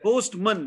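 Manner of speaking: Postman with a short reduced second vowel, POST-mun; correct postman. Shown as a demonstration. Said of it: "Remember, it's not".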